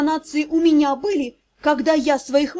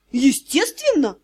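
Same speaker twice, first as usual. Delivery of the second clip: calm cheeky smile. Acted. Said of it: "спокойно и с наглой улыбкой ответил Дроу".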